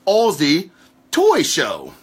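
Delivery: lightly put-on Australian accent; bad Aussie accent. Shown as a demonstration. Podcaster naming an Australian show, shaky attempt at Aussie accent. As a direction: try a rough, amateur Aussie accent. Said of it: "That was my Aussie impersonation".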